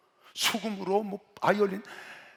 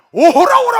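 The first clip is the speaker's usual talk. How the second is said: big, high-pitched proclamation; crying out; 18 dB louder, slower than usual. Retold or imitated. Preacher demonstrating the Bible's command to cry out, loud shout. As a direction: shout it out forcefully to the crowd. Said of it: "하면서 외치라는 거야".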